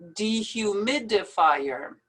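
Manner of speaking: "Dehumidifier" in careful, distinct syllables. Shown as a demonstration. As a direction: measure out each syllable of "Dehumidifier". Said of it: "best to pronounce it in syllables".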